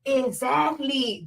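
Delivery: slow, drawn-out smug exactly; mocking the hosts, slow smug "Exactly"; mocking podcast hosts. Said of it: "two dumb bitches look at each other".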